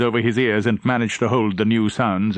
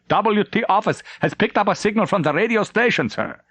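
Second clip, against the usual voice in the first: nervous stammer; 10 semitones higher than usual. Acted.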